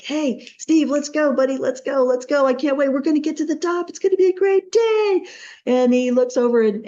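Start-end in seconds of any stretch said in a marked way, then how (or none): 0.0-5.3 high-pitched eager call, climbing higher; acted pep talk to rouse a buddy; excited rousing. Rousing his friend on the mountain.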